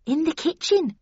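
Nellie Dean voice. A narrator's reading. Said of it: "replied Nellie Dean".

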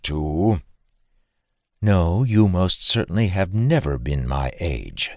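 a knowing Frisian farmer, slow; patient fatherly farmer; lightly voiced farmer. Farmer compares the lad to his son, slow and knowing.

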